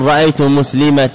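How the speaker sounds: مسلمة ending in a clear t, muslimat; مسلمة with a final t; pausal ta ending. Shown as a demonstration. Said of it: "إذا وقف عليها بالتاء".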